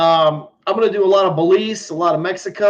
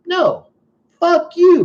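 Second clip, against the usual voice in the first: much higher, louder furious yell; angry shout; 13 semitones higher, 5 dB louder, much slower than usual. Retold or imitated. Telling the agent off at the car window, a furious shout. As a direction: explode at the agent. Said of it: "And I said".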